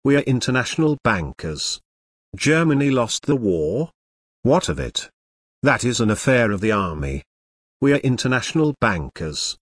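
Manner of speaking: lightly voiced smooth banker; a hint of a slow, oily purr. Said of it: "imagine the slow, oily voice in which he said".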